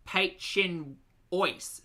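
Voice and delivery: very slow Australian-accented French, every syllable flat and broad; Ocker French. Shown as a demonstration. A streamer hams up a French dish in Ocker French. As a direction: say it like a proud Aussie mangling French. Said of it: "I love doing the Ocker French".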